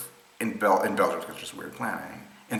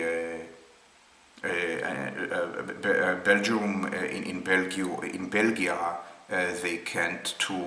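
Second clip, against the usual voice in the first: put-on slow, halting Israeli accent; a weak try at Israeli English; slower than usual. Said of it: "I can't actually get into an Israeli accent".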